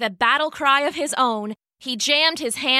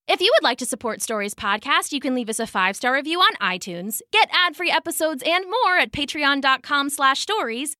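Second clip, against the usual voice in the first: podcast ad read; 3 semitones higher than usual. Real, not acted.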